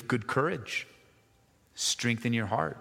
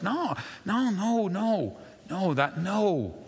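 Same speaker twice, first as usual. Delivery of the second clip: acted refusal; 8 semitones higher, slower than usual. Acted refusal to pressuring people.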